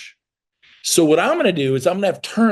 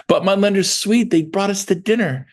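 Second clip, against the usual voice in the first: higher-pitched mild mimicking of an objection; mock protest; 5 semitones higher than usual. Agent defending a lender to the coach, mock protest. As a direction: lift it into a pleading little excuse.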